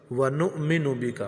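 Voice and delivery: ونؤمن with a glottal catch on the hamza, slow; slow teaching recitation; hamza clearly stopped. Shown as a demonstration. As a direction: break the sound at the hamza in ونؤمن. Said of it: "اس حمزہ کی آواز نکالیں".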